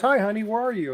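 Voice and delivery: a hint of the wife calling on the phone; voicing his wife. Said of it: "She goes".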